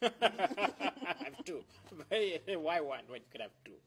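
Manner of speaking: slow words through laughter; laughing brag. Real, not acted. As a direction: chuckle out the boast. Joking about two girlfriends.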